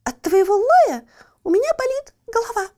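high, loud, pained complaint; irritated whine. Acted. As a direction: complain of a headache, fed up. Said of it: "фыркнула кошка".

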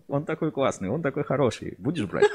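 gushing TV-shop seller; over eager infomercial. Retold or imitated. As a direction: praise it like a teleshop host. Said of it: "вот как в телемагазине".

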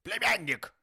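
very loud, high rebuff; cutting retort. A narrator's reading. Uncle silencing his pleading nephew, cutting. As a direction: cut him off sharply. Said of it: "отрезал дядюшка".

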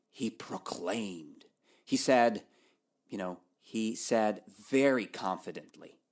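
ordinary talk, nothing marked

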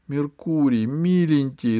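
frightened cry. A narrator's reading. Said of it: "испугалась Алиса".

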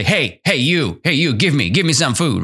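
teacher demonstrating a rude demand, mildly pushy; mild mock aggression. Shown as a demonstration. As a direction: demand food rudely, only half acted. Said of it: "This is pretty aggressive".

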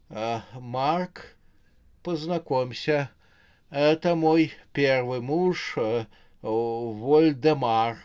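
lightly voiced flustered introduction; halting, slow stammer of someone caught out; stunned babble. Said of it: "Ошарашенная рожа пролепетала". (слегка растерянный лепет)

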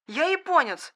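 «Я японец!» repeated high and trembling. Acted. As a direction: call out «Я японец!» again, scared and shaky. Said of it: "дрожащим голосом произнёс". («Я японец!» дрожащим голосом, повторно)

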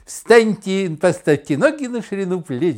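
a lightly done cheerful 1950s radio host; brisk announcer voice. Retold or imitated. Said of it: "Бодрый дикторский голос". (бодрый дикторский голос, слегка пародийно)

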